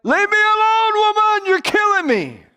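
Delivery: high, loud fed-up cry; man at the end of his rope shouting at a nagging woman; exasperated shout. Retold or imitated. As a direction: yell it like you've had enough. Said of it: "he's like".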